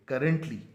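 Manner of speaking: करंटली with the two r's pulled apart; stretched. Shown as a demonstration. Teacher stretching out करंटली for students. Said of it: "इस आर को पहले देंगे".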